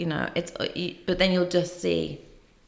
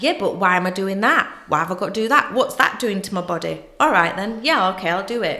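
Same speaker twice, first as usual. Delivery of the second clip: put-on loud Yorkshire lad accent; 6 dB louder than usual. Speaker quotes a favourite client from Yorkshire; Yorkshire accent impression. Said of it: "So he's from Yorkshire".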